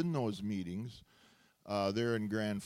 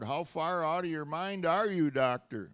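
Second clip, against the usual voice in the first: scream it; 5 semitones higher than usual. Shown as a demonstration. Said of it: "everyone scream right out loud".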